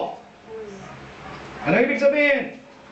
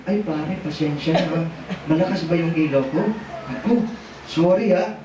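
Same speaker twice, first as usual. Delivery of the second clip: lower-pitched, conciliatory apology to a buddy; apologetic; 7 semitones lower than usual. Acted. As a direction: say sorry to a pare, low and easygoing. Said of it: "Kasi sabihin nun". (mababa at mapagpaumanhing boses)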